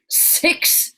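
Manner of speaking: demonstrated Scottish accent; performed Scottish voice. Shown as a demonstration. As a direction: put on a Scottish accent for the crowd. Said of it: "in the Scottish accent this time".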